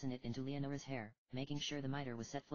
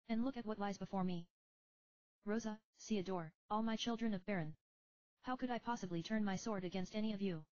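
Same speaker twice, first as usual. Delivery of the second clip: higher, regal spirit king; kingly ghost voice; 8 semitones higher than usual. Acted. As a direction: speak as a gentle ghost king. Odin the late king speaks.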